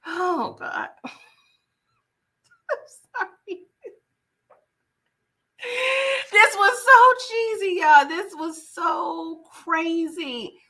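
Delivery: high, laugh-cry, breaking up; helpless laughter. Real, not acted. Vlogger breaking down over the cheesy scene, laughing helplessly. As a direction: lose it laughing mid-sentence.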